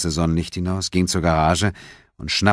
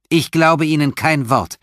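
high, loud, leaning in; aggressive; 10 semitones higher, 6 dB louder than usual. A narrator's reading. Detective leaning over table at suspect, aggressive. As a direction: push hard at him, accusing. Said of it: "beugte sich aggressiv über den Tisch".

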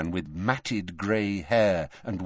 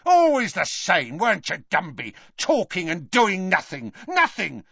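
angry ranting; 10 semitones higher than usual. A narrator's reading. Death Eater rants at Dumbledore.

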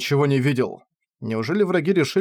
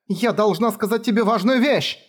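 much higher tearful shout; girl's cry; 8 semitones higher than usual. Acted. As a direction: break into a desperate cry. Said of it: "сорвалась Ноллис на крик". (Кефар срывается на крик)

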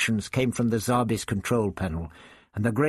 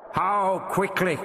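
high, slow, measured query; alien voice asking; 8 semitones higher, slower than usual. A narrator's reading. The voice in the dome presses the Doctor, measured. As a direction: probe carefully.

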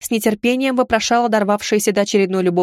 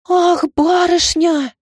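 drawn-out, higher pitying cry; slow pitying wail; 8 semitones higher, 3 dB louder, much slower than usual. Acted. Maid pities her wronged lady, slow wailing cry. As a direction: wail it out in sympathy. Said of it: "всплеснула руками Лаура".

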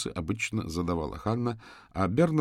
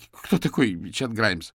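alarmed protest; 3 semitones higher, 7 dB louder, slower than usual. Acted. Frightened suspect's denial.

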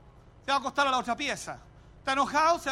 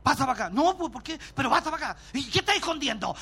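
lightly voiced suspicious wife; mock the wife's nagging questions; a hint of a jealous wife interrogating her husband; faster than usual. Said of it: "la esposa dice".

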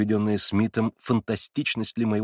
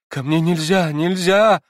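much higher and louder, building to a scream; terrified outcry; 8 semitones higher, 8 dB louder, slower than usual. A narrator's reading. Girl refusing to let him come home, terrified outcry. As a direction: cry out in horror. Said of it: "вскричала она ещё в сильнейшем испуге".

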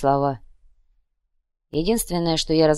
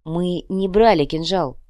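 soft; slower than usual. Acted. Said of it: "мягко произнёс Сахар".

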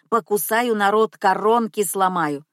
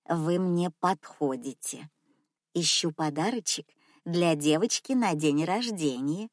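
put-on soft old lady; 3 semitones lower, 4 dB quieter than usual. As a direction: speak sweetly, like a rich grandma. Old lady speaks, in her voice.

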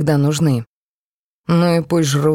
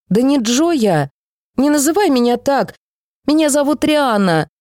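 put-on high protesting child, a touch tearful; sobbing girl; 8 semitones higher than usual. A narrator's reading. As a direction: insist through leftover tears. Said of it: "всё ещё всхлипывая". (всхлипывающая девочка, высоко)

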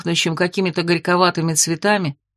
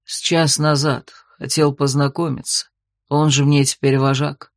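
tender werewolf; 4 semitones lower than usual. Acted. Werewolf kneeling before his queen, lower tender voice. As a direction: murmur it like a vow at her knees. Sinark answers.

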